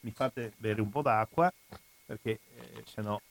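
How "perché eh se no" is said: throat catching, stopping to cough; coughing fit. Real, not acted. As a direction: speak through a tickly cough. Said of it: "vi chiedo scusa per la tosse".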